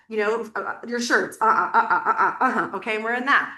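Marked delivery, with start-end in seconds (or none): 1.4-3.5 laughing gut answers. Shown as a demonstration. Acting out gut answers to clothes.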